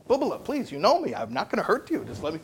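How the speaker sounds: high, pleading reassurance; coaxing parent. Retold or imitated. Parent begs a screaming child to let them remove the splinter, high coaxing. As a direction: soothe the scared child into trusting you.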